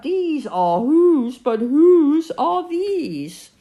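slow, sing-song reciting of a silly verse; proud bear reading his poem; poem recital. Acted. Pooh recites his poem to Kanga, slow and sing-song.

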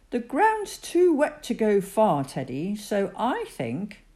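lightly voiced kind father bear; a calm dad bear speaking; gentle daddy bear.

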